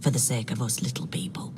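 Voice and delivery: soft wry whisper; whispered aside. Acted. Detective confiding to the recruit, wry whisper. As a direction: drop it to a whisper, half joking.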